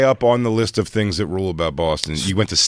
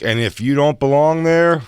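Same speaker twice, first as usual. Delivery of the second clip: mock warning; 5 semitones higher than usual. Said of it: "And you said, like".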